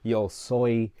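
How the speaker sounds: his name rolled in a Spanish accent; a dropped, Spanish-accented self-introduction. Real, not acted. Vlogger introducing himself in Spanish, with a Spanish accent. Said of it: "the accent pops up when I speak Espanol".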